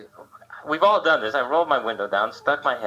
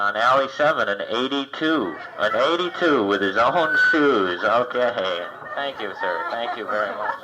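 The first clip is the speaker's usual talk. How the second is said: desk clerk announcing. Retold or imitated. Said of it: "the guy at the desk went".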